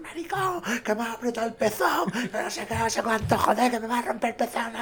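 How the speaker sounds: shrill falsetto complaint, laughing through it; high-pitched complaining woman. Retold or imitated. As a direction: squeal it like she's been pinched. Voicing Candela's complaint on set.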